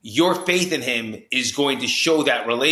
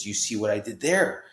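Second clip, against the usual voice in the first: gently; 3 semitones lower, 4 dB quieter than usual. Retold or imitated. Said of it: "very gently".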